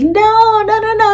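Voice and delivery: high-pitched, drawn-out imitation of crying; mock puppy wail. Crated puppy begging owner not to leave, mock wail. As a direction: wail it like a pup being left behind. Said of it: "screaming and crying".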